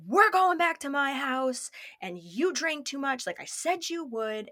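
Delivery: bossy retold telling-off; scolding. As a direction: imitate an angry boyfriend scolding. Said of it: "like, scolding me".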